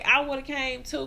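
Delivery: slow, each word leaned on; deliberate insistent repeat. Retold or imitated. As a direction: draw it out to insist.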